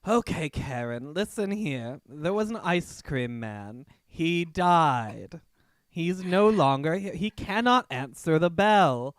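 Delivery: loud, firm telling-off; loud exasperated scolding; scolding Karen. Acted. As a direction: lay it out loudly and firmly. Player scolds the entitled customer.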